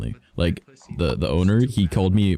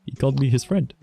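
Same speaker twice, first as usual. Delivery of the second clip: high, awed little gasp at being befriended; touched surprise; 8 semitones higher than usual. Retold or imitated. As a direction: retell being moved by a small kindness. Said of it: "I was just like".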